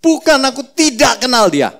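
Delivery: mock Peter cursing in denial. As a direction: deny him with a curse. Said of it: "Dengan mengutuk".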